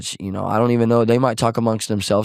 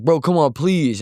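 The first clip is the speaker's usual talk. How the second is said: higher-pitched begging, acted out; imitated urgent appeal, raised pitch; retold pleading; 6 semitones higher, slower than usual. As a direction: plead lightly, as in quoting someone. Retold brother begging on the phone.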